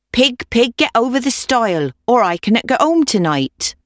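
put-on pleading old woman. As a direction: urge the stubborn pig in an old woman's voice.

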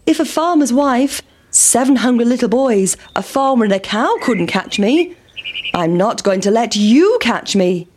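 defiant pancake. Acted. Pancake taunting the farmer, defiant.

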